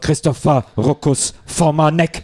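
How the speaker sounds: slow, emotionless robot voice. Pretend. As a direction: chant the name flat like a robot. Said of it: "So emotionslose Roboterstimme".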